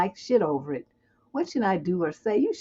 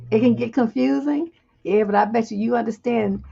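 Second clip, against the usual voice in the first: ordinary talk, nothing marked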